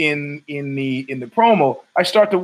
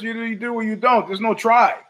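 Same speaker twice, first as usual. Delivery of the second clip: lightly voiced Yoda, a touch higher; a hint of the wise little Jedi master; 6 semitones higher than usual. Quoting Yoda to mock politicians, lightly higher. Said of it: "Yoda says it best".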